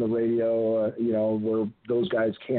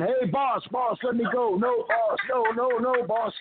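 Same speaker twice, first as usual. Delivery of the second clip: high, frantic mock begging; Coco; 10 semitones higher than usual. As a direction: imitate a scared underling pleading to be released. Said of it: "now Coco's getting scared".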